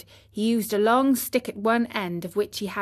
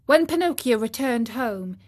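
plain reading voice

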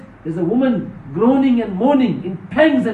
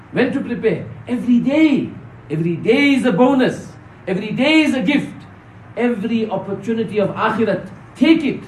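preacher's rising insistence; urgent exhortation; 3 semitones higher than usual. Real, not acted. Preacher urging brothers to prepare every day, urgent exhortation. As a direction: drive each short phrase home.

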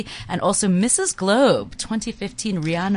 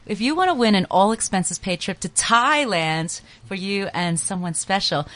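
booming prize announcer. Acted. Reads the Thailand prize promo.

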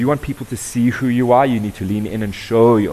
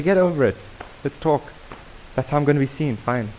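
brisk dismissal; 5 semitones higher than usual. Retold or imitated. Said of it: "And we say".

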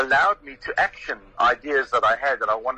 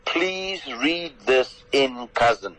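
slow quoted request; much slower than usual. Retold or imitated. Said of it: "I say".

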